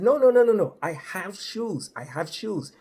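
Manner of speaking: put-on nervous young driver denying it; flustered protest. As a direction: hurry to set the cop straight. Narrator protests to the trooper.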